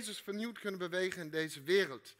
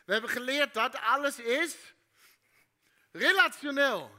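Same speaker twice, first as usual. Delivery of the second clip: emphatic; 5 semitones higher, 8 dB louder than usual. Real, not acted. Calls out key word.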